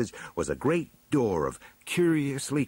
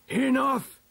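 very high, loud command; imperious one-word cry; 5 dB louder than usual. A narrator's reading. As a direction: cut the quarrel off sharply. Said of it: "cried the chief elder".

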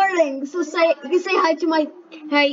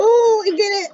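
excited; 6 semitones higher, 5 dB louder than usual. Real, not acted. Beats level again.

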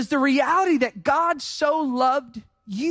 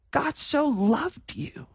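soft assurance; 4 dB quieter, slower than usual. Acted. Softer closing assurance.

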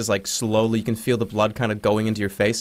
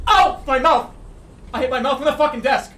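pained yelp; 11 semitones higher than usual. Real, not acted. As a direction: yell out after smacking your mouth. Hit mouth on desk.

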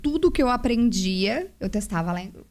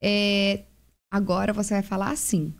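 calm advice. Retold or imitated. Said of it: "Daí eu falei assim".

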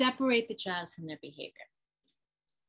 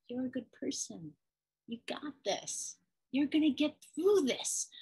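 gentle encouragement; 4 semitones higher than usual. Acted. Parent reassuring child, top bread.

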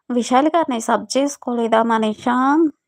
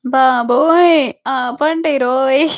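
laughing protest; 3 dB louder, much slower than usual. Real, not acted. Teased, begging them to stop.

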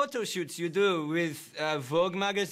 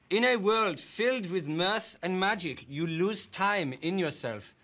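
quoting Frodo. Acted. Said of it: "there is a quote from Frodo".

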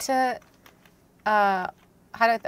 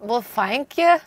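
mock accent drifting into Scottish; muddled go at a Scottish-like accent. Thanking a co-player in a muddled, near-Scottish mock accent. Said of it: "That was Scottish, I think".

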